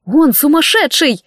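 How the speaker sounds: медленно, выше обычного, с тревогой; вскрикнуть в испуге за него; восклицание. A narrator's reading. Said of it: "воскликнула я". (взволнованный возглас, растянуто)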